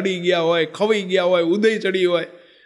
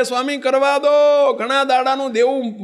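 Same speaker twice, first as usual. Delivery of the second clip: put-on old monk weeping, pleading to bow at the saint's feet; tearful plea; 5 semitones higher than usual. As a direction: beg forgiveness through tears. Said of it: "રોતા જાય ને દંડવત કરતા જાય".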